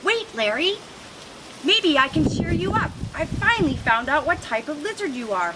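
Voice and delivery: a pigeon calling out with good news; mildly excited cry. Acted. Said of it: "Percy cries".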